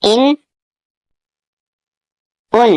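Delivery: ان with a clear held nasal n; teacher modelling ان with a ringing noon; demonstrating noon sakin. Shown as a demonstration. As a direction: sound out ان slowly for the class, the n ringing. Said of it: "یعنی نون ساکن کو پڑھا جاتا ہے ان".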